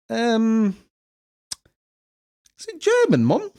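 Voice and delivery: high, rising puzzled query; baffled question. Retold or imitated. Son opening a German book at Christmas, baffled. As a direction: pretend to be politely confused. Confused kid at Christmas gift.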